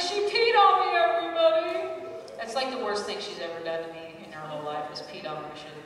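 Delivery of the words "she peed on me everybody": much higher, louder joyful announcing; giddy announcement. Retold or imitated. New mother announcing to the delivery room, giddy. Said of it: "I was like".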